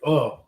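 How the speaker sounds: short mocking groan; imitated "oh". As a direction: mimic her reaction with a laugh. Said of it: "making an ugly face at me".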